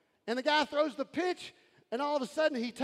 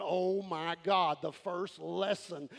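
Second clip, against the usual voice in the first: slow, low, a hint of stunned awe; overwhelmed newcomer; 8 semitones lower, slower than usual. Newcomer after the first freedom lesson, stunned. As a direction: sound lightly floored by it. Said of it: "walk in this morning going".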